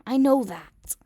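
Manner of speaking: loud, high, snapping back; shouted retort. Acted. Kacchan yelling back at Deku through the door.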